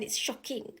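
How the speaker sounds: retold in a soft, unvoiced hush; stunned, hushed quote; shocked hush. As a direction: breathe it out in quiet disbelief. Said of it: "He was actually shocked".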